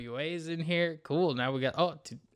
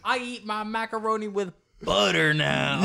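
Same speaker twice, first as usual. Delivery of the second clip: mock kid; 8 semitones higher, 4 dB louder than usual. Mocking the kid's grown claim.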